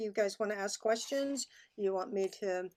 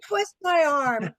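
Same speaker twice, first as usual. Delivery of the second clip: mock reluctance; 6 semitones higher, 10 dB louder, slower than usual. Asked to play a song.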